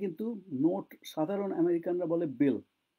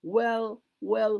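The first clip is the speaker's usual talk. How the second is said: acted hesitation; much slower than usual. Shown as a demonstration. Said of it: "এই যে কথাগুলো, এগুলো যত বলতে পারবে".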